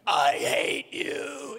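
slow, drawn-out cry of hate; wife in labor snapping. Retold or imitated. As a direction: let it tear out of you mid-contraction. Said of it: "she changed".

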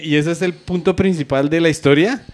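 incredulous retort. Retold or imitated. Listener questioning the driver's story about the bullets, incredulous. Acted indignant reply in story.

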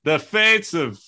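a touch of hammy Irish; Irish accent. Pretend. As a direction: try out a mock Irish lilt. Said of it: "hold on, is that good?".

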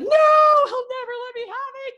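high, loud retold protest; panicked protest. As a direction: sister begging brother not to tell Dad, high and loud. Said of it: "I'm like".

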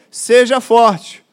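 "Seja forte" bem devagar e mais forte; exortação firme. Acted. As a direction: marque cada sílaba de "Seja forte" com força. Pastor exorta a igreja. (pastor exortando a igreja, devagar e com força)

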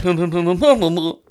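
wordless comic growling; mock growly French impression. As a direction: babble a growly send-up of a French accent. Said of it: "Not growly enough".

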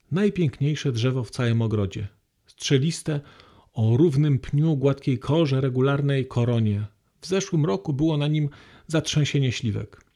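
a calm reading from a novel, paced evenly; story reading. Acted. Lecturer reads a novel passage to the hall, calm and even.

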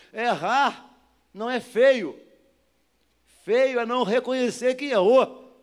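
loud, emphatic sermon exhortation; forceful, shouted pulpit delivery; full-force preaching. Real, not acted. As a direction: drive each phrase home to the congregation.

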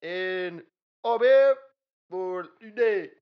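high foreign guest voice. Acted. Famous actor from Mumbai.

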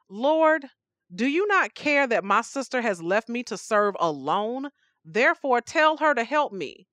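lightly voiced exasperated plea; indignant complaint. Martha complaining to Jesus, mildly indignant. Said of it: "I love this tone she takes with Jesus".

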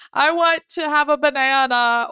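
a hint of a fussy toddler asking; whiny child. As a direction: mimic a toddler begging at night. Parent voices whining child's demands.

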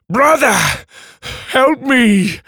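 high, loud, frightened plea; pleading cry. Acted. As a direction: beg your brother to save you.

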